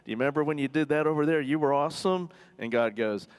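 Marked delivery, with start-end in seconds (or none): 0.0-2.3 higher, eager wheedling as Habakkuk; butter him up with keen reminders; coaxing. Retold or imitated. Habakkuk working God with reminders of his miracles, coaxing. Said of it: "tries to work God a little bit".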